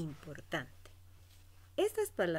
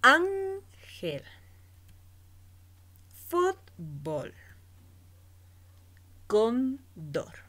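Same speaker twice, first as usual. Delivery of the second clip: loud words with the first syllable punched, Ángel pitched much higher; penultimate stress shown; 6 semitones higher, 7 dB louder, much slower than usual. Shown as a demonstration. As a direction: hit the first syllable of Ángel, Fútbol, Cóndor. (fuerza en la penúltima sílaba)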